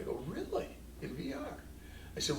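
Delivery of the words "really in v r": a sudden high, surprised "Really?"; a high pitched jump of surprise. Retold or imitated. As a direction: react like you can't quite believe it. Surprised reaction to student's VR project.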